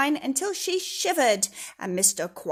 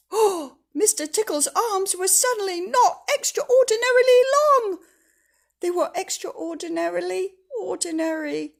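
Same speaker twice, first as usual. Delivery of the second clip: higher, louder, laughing; gasping delight; 9 semitones higher, 8 dB louder than usual. Acted. Reader marvels at the shrunken arms, laughing. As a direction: burst out with glee. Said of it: "gasp, laughing narration".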